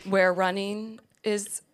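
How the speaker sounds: slow, laughing radio announcer; hammed-up DJ intro, slowly. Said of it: "It's gonna turn into a man voice".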